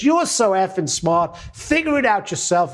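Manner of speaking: a touch of mock exasperation; frustrated outburst. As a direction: throw up your hands and snap it out. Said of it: "he gets so frustrated".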